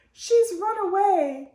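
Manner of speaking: high, loud distressed cry. A narrator's reading. Mother telling neighbour her child is gone, alarmed cry. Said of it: "cried Mother Lumps".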